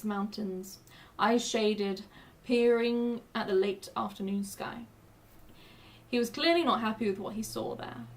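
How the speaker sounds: reading a story aloud; steady storybook narration. Acted. Reads campaign parchment text.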